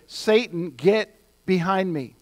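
Jesus's stern order, as retold; strong, direct rebuke. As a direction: rebuke him directly, slowing on the command. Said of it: "can't get any stronger than that".

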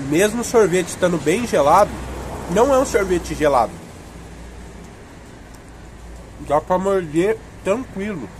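speaking between bites; talking while eating popsicle. Real, not acted. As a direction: mouth partly full of ice cream. Seen 5: Holds popsicle throughout, bites it around 4.9-7.4 while talking.

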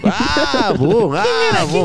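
high whoops and booms for each jump; imitated jump noises. Retelling friends jumping in, mock whoops. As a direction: mimic friends leaping, boom.

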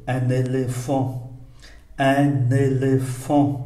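"un éléphant" with the n carried over; linked reading. Shown as a demonstration. Teacher demonstrates liaison, linked "un éléphant". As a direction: join "un éléphant" as un-néléphant. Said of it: "Đọc nối".

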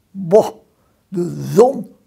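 loud call from the hole; mole calls out. A narrator's reading. Mole calling out to the sunlight, loud. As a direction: shout it at the sun. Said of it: "roept de mol".

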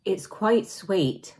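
speaking between spoonfuls; slight food in mouth; just ate mousse. Real, not acted. Seen 1: Holds mousse cup and spoon, lips pressed as if chewing.

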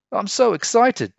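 high, loud burst of excitement; bursting with glee; squeaky thrilled cheer; excited exclaim. A narrator's reading. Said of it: "Jim exclaimed".

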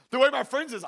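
high, projected sermon delivery; energetic preaching. Real, not acted. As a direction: tell it big to the congregation. Preaching to congregation.

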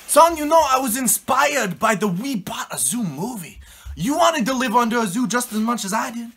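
loud high shouting back; loud retort. Acted. Dad shouting back at his son about the zoo.

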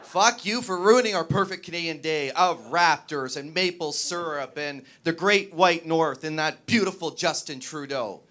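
mock angry rant. Venting the true meaning of sorry.

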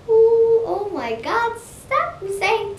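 loud exasperated ooh. Real, not acted. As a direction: groan of annoyance. Reacting loudly to the repetition.

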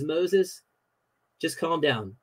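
lightly voiced God calming Moses down. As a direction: gently settle a panicked Moses. God answering Moses, paraphrased.

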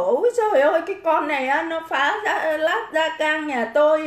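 lightly voiced whining old woman; a hint of a complaining granny, mocking her. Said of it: "đưa cái bà Lào ra xong bảo". (giả giọng bà già than vãn, nhại nhẹ)

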